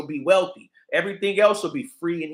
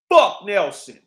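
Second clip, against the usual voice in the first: loud angry curse; 8 dB louder, slower than usual. Real, not acted.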